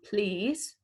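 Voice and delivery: put-on bright photographer's call to a child. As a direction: call across the room like a photographer. Acting out a photographer's command.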